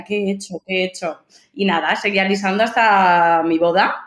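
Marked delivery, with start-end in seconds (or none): 0.0-1.2 tearful despair. Retold or imitated. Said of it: "Yo lloraba y decía".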